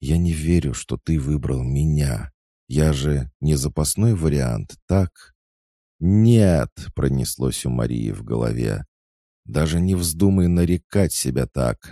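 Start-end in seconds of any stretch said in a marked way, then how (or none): 0.0-5.3 put-on high, emotional girlish pleading; anxious disbelief. A narrator's reading. Girl asking her boyfriend if he chose her, anxious. 6.0-6.7 high, loud drawn-out "no"; anguished cry. A narrator's reading. Maria screaming inwardly at her rival, anguished. 9.4-11.9 high, louder furious reproach; indignant outburst. A narrator's reading. Maria inwardly raging at her rival, indignant.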